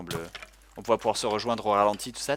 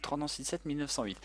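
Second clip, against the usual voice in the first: ordinary talk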